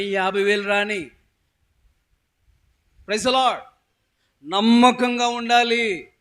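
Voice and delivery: loud, emphatic sermon delivery; preacher driving the point home; preaching. Real, not acted. Preaches to congregation.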